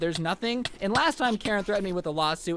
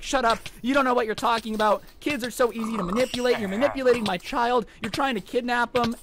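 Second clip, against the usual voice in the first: higher, mildly heated mock of an angry mother; retold indignant accusation; 4 semitones higher than usual. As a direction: cut them off and accuse, pitched up.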